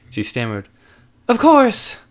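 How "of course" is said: excited yes. Acted. Lizzie accepts.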